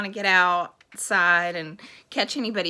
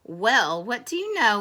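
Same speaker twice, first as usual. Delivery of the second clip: louder, pleasantly surprised exclamation; amused elephant; 2 semitones higher, 6 dB louder than usual. Acted. Elephant finding the sneeze gone, amused surprise. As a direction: marvel aloud with amusement. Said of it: "laughed the elephant".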